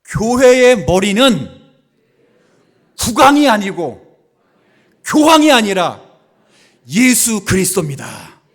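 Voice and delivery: booming declaration, a pause after each phrase; call for repetition. Shown as a demonstration. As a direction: shout it out for the congregation to repeat. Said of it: "자, 따라해보세요".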